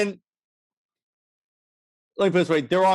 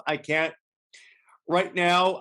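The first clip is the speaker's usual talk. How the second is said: whispered. Retold or imitated. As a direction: let the words sink to a whisper. Superman quote drops to whisper.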